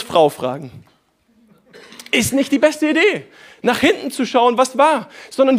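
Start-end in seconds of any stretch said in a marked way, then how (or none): 2.1-3.3 higher, teasing put-on voice on "Idee"; playful repeat. Shown as a demonstration. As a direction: toss the line back with a wink. Preacher repeats line playfully.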